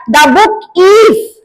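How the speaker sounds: slow "the book is", with "book" and "is" punched; slow teacher demo of "the book is"; stress on content words. Shown as a demonstration. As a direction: stretch "the book is" to show the stress. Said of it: "we are stressing".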